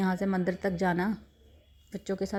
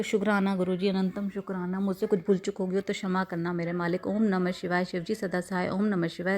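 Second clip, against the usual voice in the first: devotional closing prayer. Real, not acted. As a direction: close with a humble prayer to the guru.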